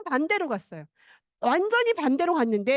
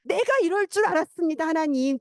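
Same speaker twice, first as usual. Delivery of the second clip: mock angry complaint; 2 semitones higher than usual. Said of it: "막 화를 내요".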